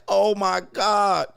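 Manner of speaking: high, slow gushing oh my God; mock gush of a woman meeting a dog; gushing white woman. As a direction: stretch it out like a smitten dog lover. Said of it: "She was like".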